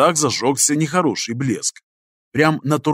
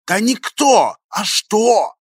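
irritated; 6 semitones higher, slower than usual. A narrator's reading. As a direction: snap back, annoyed. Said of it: "раздражённо поправил".

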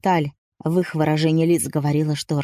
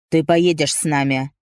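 a lightly voiced stern husband; Rashid's order, mildly clipped off; cutting off; 2 semitones lower than usual. A narrator's reading. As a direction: end the argument curtly. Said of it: "отрезал Рашид".

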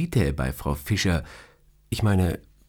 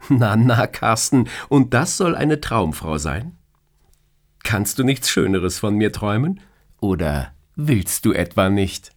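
higher, playful female voice, mock scolding; teasing boss; 3 semitones higher, 4 dB louder than usual. Boss teasing her employee about his dream, playfully higher. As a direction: tease him like an amused boss.

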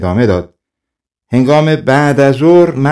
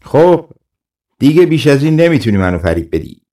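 frustrated ruler yelling up from his horse; hammed-up angry yell, quickening; shouting governor; 4 semitones higher than usual. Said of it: "فریاد کشید".

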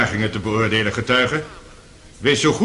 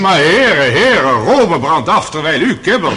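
loud, exasperated call for order; raised call to order; 4 dB louder than usual. Acted. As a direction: rap the quarrelling lawyers back into line. Judge calls quarrelling lawyers to order.

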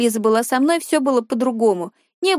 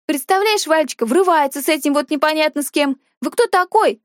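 put-on snooty girl; 5 semitones higher than usual. Dina mock-indignant, higher voice.

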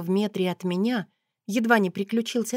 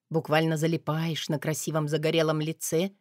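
plain reading voice

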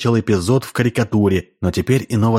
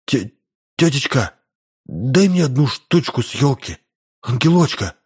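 put-on a boy's higher pleading voice, begging for the toy; 3 semitones higher than usual. A narrator's reading. Boy begs the hostess for the angel, pleading higher.

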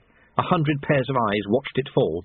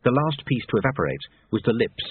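usual speaking voice

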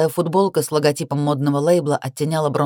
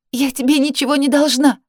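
high desperate shout; 8 semitones higher, 4 dB louder than usual. A narrator's reading. Sister protests loudly.

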